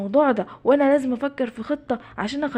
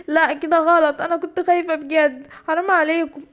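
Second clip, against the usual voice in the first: a higher, hurt giraffe voice; upset giraffe; 4 semitones higher than usual. Acted. The giraffe tells the boys off, higher and hurt. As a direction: protest like she's still shaken.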